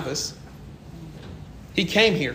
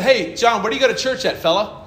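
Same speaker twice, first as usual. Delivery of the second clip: teasing provocation; 4 semitones higher than usual. Retold or imitated. Poking the atheist team lead about church, teasing. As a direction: needle him cheerfully. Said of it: "liking to poke bears".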